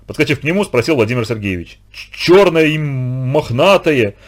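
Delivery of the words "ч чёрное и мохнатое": slow, stammering, squeezed out; frightened stammer. A narrator's reading. Terrified boy telling the teacher what he saw, stammering. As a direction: force the words out through fear. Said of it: "еле выдавил из себя Лёшка".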